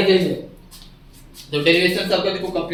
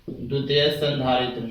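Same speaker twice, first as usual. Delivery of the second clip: dictation; 6 semitones lower, 9 dB quieter than usual. Real, not acted. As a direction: dictate it in quiet, spaced-out chunks. Teacher dictating notes while writing. (धीमी, नीची आवाज़ में लिखवाते हुए)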